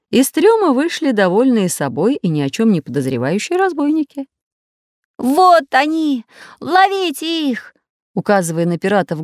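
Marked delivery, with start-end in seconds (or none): 5.2-7.7 loud shout. A narrator's reading. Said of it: "громко закричал Чижик".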